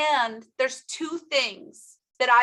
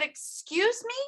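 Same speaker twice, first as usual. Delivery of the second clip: higher, softer incredulous question; quieter, still in disbelief; disbelieving; 8 semitones higher, 5 dB quieter than usual. Retold or imitated. Repeated stunned reply.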